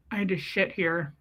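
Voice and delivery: mock-discreet confession; side-of-mouth aside. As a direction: admit it from one corner of the mouth. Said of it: "Why do people think that that's discreet?".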